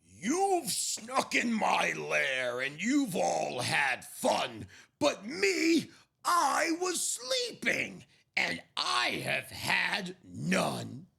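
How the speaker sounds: loud, slow upset bear; grumpy bear. Acted. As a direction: complain about missing the party. Bear wakes up grumbling.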